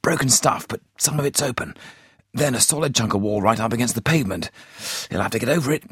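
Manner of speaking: urgent running commentary, building to a yell; a spotter shouting as the escape begins; harsh with excitement. A narrator's reading. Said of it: "voice was harsh with excitement".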